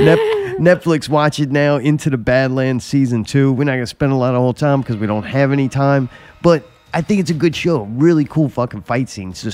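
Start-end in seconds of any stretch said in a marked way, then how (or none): 0.0-3.5 hammed-up commercial announcer. Ad-style announcement.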